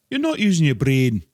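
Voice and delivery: loud, high-pitched character impression; Seth MacFarlane impression. Recalling Seth MacFarlane's line, loud high impression. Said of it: "that Seth MacFarlane deal".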